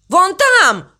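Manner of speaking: high-pitched cry of alarm. A narrator's reading. Crow spots a wave from the boat, crying out. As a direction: cry out as if spotting danger. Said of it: "закричал ворон".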